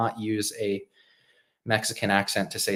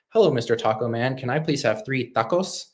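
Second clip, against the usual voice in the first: mock Spanish accent, landing on "tacos"; 3 semitones higher than usual. Shown as a demonstration. Ordering from a taco man in English, in a put-on Spanish accent. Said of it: "I would not switch to a Spanish accent".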